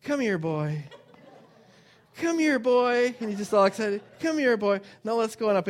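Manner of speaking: high, loud, eager calls; excited dog-calling. Retold or imitated. Owner calling dog Sam, excited high loud voice. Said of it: "he go".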